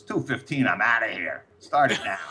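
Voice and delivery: imitated star refusing to wait; mock impatient refusal. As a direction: balk at the delay, played for laughs. A singer balks at being made to wait.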